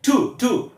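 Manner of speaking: "টু" with a puff of air, like ঠ; aspirated t. Shown as a demonstration. Teacher fixing the first syllable of today, "টু" aspirated like ঠ. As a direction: breathe out on the t of "টু". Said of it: "আর ঠ".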